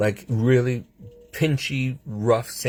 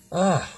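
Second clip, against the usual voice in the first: exasperated groan; 9 semitones higher than usual. Real, not acted. Exasperated groan after retelling argument.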